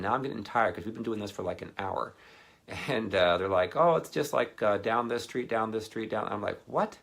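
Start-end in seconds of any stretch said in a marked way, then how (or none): 3.8-6.3 put-on kid voice. Kids voiced breezily. 6.7-7.0 shocked what. Retold or imitated. Shocked at distance.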